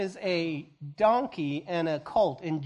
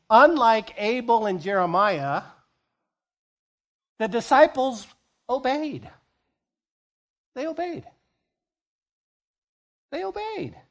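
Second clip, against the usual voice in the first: louder and higher, rising on obeyed; building emphasis; 5 semitones higher, 7 dB louder than usual. Real, not acted. Preacher stressing obedience to the church, building higher. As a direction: drive home that they obeyed.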